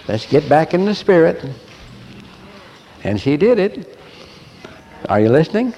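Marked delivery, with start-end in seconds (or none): none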